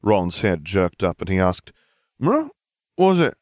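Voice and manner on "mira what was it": high, loud question through food; mouth full. A narrator's reading. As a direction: ask it round a mouthful. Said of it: "talking with your mouth full again".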